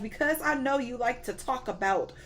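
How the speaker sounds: a hyped-up lightly voiced God. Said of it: "He was like".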